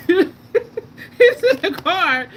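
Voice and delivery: words squeezed out through real laughter; cracking up mid-sentence, barely getting it out; laughing while telling. Real, not acted. Telling her viewers about the spoon guy while laughing hard.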